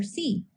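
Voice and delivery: "C" said as a short k sound; letter sound demo. Shown as a demonstration. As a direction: release "C" as a bare k, not the letter name. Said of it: "pronouncing the sound for the letter".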